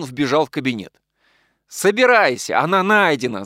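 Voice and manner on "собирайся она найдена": higher, louder joyful shout; excited shout into the study. A narrator's reading. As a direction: call out the good news. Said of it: "закричал он".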